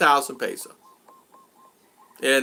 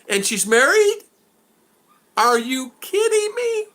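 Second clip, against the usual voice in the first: disbelieving outburst; 5 semitones higher than usual. Retold or imitated. Scolding the lovesick man, incredulous and high. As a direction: act out stunned disbelief. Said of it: "Right, like that".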